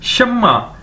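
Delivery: "शम्मा" with doubled m and falling end; model pronunciation. Shown as a demonstration. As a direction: teach "शम्मा" as sham-ma, held m. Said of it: "इसको कैसे बोलेंगे?".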